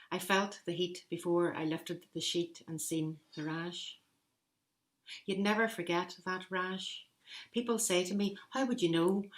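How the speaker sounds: a light, self-confessed attempt at a strong Belfast accent. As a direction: tell it like a Belfast mother, as best you can. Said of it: "strong Belfast accent, which I don't have, but I'll do my best".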